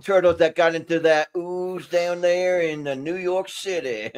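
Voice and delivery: put-on Cajun accent. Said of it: "do it for the Cajun accent".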